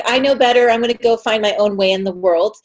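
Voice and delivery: lightly voiced cocksure teen; imitating a teenager. Guest quoting herself at eighteen, lightly imitated know-it-all teenager. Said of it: "you know, teenagers, I was like".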